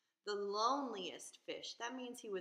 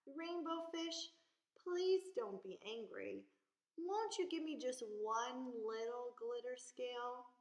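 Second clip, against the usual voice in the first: timid little fish pleading; gentle plea; 4 semitones higher than usual. Acted.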